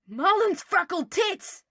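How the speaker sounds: high, slow, loud shocked yelp; a posh boy caught off guard. Acted. Draco yanked away by Harry, yelping loudly. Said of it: "Draco yelped".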